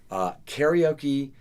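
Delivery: slow Southern drawl on karaoke; Southern accent. Real, not acted. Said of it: "Southern accent".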